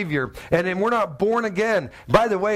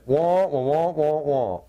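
Charlie Brown teacher noise; 3 semitones lower, slower than usual. Retold or imitated. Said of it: "And they do this".

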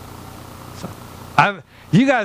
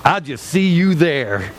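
slow, put-out mock farewell; mock-resentful send-off; mock curt sulk; 3 semitones lower, slower than usual. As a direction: play a spouse in a huff. Acts spouse leaving separately after argument.

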